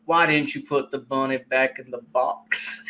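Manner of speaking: lightly put-on movie-hero voice; movie line impression. Fan quoting favorite lines to the co-host, lightly hammed-up impression. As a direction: quote the line as a drawling action hero. Quotes the film's Cage lines.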